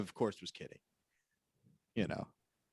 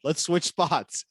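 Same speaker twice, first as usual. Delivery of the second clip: slow drawn-out quote; 3 semitones higher, much slower than usual. Retold or imitated.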